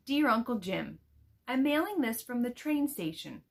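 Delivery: put-on expressive read-aloud of a girl's letter; reading aloud to children. Teacher reading a letter from the book to her students, expressive storybook voice.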